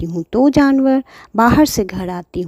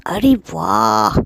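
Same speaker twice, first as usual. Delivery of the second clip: thief scheming. Acted. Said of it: "चोर ने सोचा".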